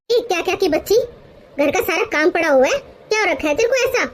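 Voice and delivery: scolding mother-in-law. Acted. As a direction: bark at the lazy daughter-in-law. (ग़ुस्से में डाँटती सास)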